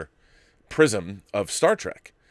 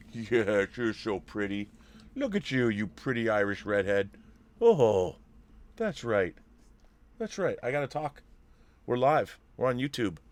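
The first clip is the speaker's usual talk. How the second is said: doggy praise; 5 dB quieter than usual. Real, not acted. Praising the dog.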